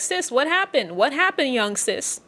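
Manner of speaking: mother-in-law eagerly quizzing Ruth; excited Naomi. Retold or imitated. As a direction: play Naomi bursting to hear the news. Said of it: "Naomi is getting excited".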